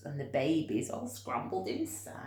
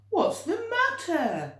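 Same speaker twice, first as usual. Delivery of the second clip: high, concerned question; kind giant asking; 12 semitones higher, 8 dB louder than usual. Acted. Giant George asking the sad giraffe what's wrong, concerned. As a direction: ask gently what's wrong.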